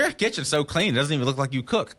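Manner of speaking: high, loud suspicious caseworker; mock the inspector's suspicion. Dad imitating the home study lady, pitched high. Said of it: "she's like".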